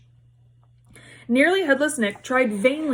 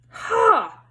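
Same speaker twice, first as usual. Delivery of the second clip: high jeering yell; mocking yell; 12 semitones higher than usual. A narrator's reading. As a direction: laugh it off with a jeer. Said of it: "yelled Sir Patrick's head".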